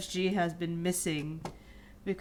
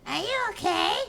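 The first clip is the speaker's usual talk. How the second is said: high, loud worried question; concerned voice; 12 semitones higher, 5 dB louder than usual. Acted. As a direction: ask gently but urgently. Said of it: "voicing the player character".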